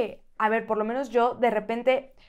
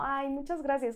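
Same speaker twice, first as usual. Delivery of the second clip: softer, demure imitated thanks; mock humble; 8 dB quieter than usual. Mother shows how she doesn't accept compliments, mock humble thanks. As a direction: thank meekly, as a show of false modesty. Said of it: "No es como".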